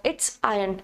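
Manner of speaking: iron said "eye-un", no R at all; silent r in iron. Shown as a demonstration. Teacher showing students iron with the R silent. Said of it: "R is silent".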